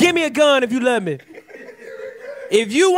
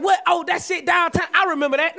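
mock confused recall; 4 semitones higher than usual. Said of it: "nigga be like".

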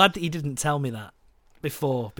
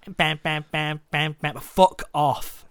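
swearing tirade; 4 dB louder than usual. Real, not acted. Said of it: "What are you telling to fuck off now?".

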